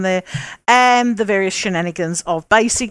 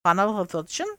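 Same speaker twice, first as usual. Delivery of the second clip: terrible Spanish accent; 5 dB quieter, faster than usual. Shown as a demonstration. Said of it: "That's my terrible Spanish accent".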